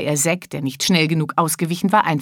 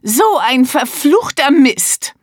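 slow, loud, higher angry outburst; furious curse; 7 semitones higher, 5 dB louder, slower than usual. Acted. Mister Hilarious cursing furiously at the phone news. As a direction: spit out the curse in rage. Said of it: "dann schrie er erneut los".

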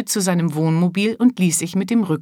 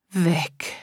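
stunned devastation; much slower than usual. Acted. Mister Hilarious stunned.

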